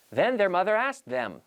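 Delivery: "Then their mother asked them" at normal speed with the words linked; linked natural speed. Shown as a demonstration. Teacher saying the tongue twister at speed with linked words. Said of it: "notice the way I link the words".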